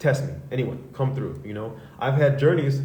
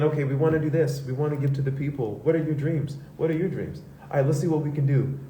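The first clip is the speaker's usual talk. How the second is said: higher, bubbly do-gooder chirp; Care Bear voice; 4 semitones higher than usual. Retold or imitated. Two friends cruising around offering help, in a sweet cartoon chirp. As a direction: sound like a cheerful cartoon bear. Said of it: "like two Care Bears".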